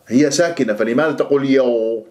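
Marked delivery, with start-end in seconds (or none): 1.5-2.1 "يو" as "yagh" with lips pursed; rounded lips. Shown as a demonstration. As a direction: round the gh of "يو" towards oo. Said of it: "تكور الشفاه".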